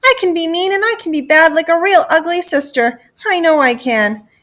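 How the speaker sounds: high, insistent begging; child's desperate pleading; wailing plea. Acted. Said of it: "Gertie wailed".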